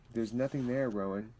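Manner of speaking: put-on John calming the boy, firm; loud, firm. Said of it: "spoke slowly and loudly".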